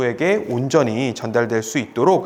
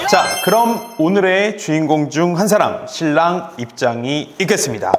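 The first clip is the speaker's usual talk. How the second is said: stage introduction. Shown as a demonstration. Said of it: "한번 해보도록 하겠습니다".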